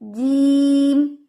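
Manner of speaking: जीम stretched slowly as a demo; drawn-out jeem. Shown as a demonstration. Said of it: "जीम नहीं पढ़ेंगे".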